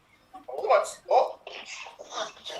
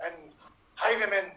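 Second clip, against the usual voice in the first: dramatic warning. Acted. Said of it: "the medieval period".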